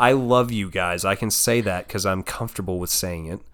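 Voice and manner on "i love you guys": slow, heartfelt declaration; mean every word of it; say it with your chest. Shown as a demonstration. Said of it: "Say it with your chest".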